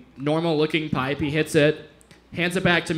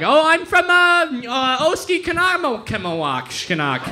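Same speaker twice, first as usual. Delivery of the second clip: lightly voiced chirpy local, pitched up then dropping; imitated local; 7 semitones higher than usual. Local telling comedian where they're from, imitated chatty reply. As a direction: fumble through a hometown name as a local. Voicing locals naming obscure hometown.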